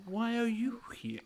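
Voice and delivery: mock ghostly whisper. Echoes the spirits' question.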